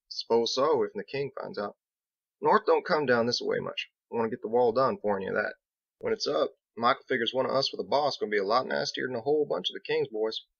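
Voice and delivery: easygoing country mason, a bit worried; lightly voiced Biggs. Biggs telling Captain about the north, folksy and worried. Biggs explains Michael's plan.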